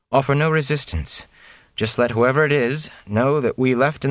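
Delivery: serious counsel to the innkeeper; grave noblewoman. A narrator's reading. Moiraine warning the innkeeper of coming trouble, grave and urgent.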